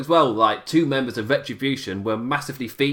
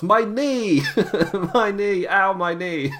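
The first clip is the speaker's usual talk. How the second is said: put-on high, very slow, stretched-out pained shout; 6 semitones higher than usual. Recapping a wrestling segment, the speaker acts out an injured wrestler, mock shouting in pain. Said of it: "And she shouts".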